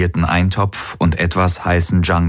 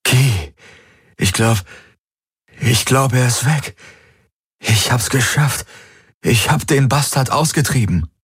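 higher voice, eager and relieved; eager male character; 6 semitones higher than usual. A narrator's reading. Garland tells Kirai the demon is gone, higher, eager.

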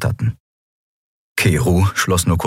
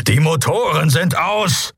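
raised-pitch angry snort; barely suppressed fury; 10 semitones higher than usual. Acted. Pilot answering Endriel, snorting with barely held rage. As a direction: snort it out, anger straining through. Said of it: "schnaubte Keru mit kaum unterdrückter Wut".

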